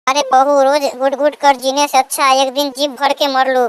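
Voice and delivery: put-on very high-pitched old mother-in-law voice; defiant mother-in-law. Mother-in-law defends eating sweets to daughter-in-law, defiant. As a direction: insist in a high put-on elder's voice.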